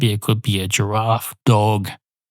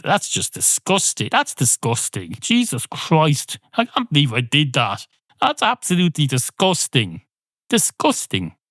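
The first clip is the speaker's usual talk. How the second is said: mock disgust; 5 semitones higher than usual. Real, not acted. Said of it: "reacting to his own delivery".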